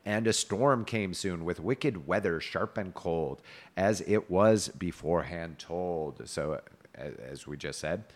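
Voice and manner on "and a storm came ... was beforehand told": slow, measured verse-like reading; tale narration. A narrator's reading. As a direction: draw out the closing phrases like an old storyteller. Reads medieval tale aloud.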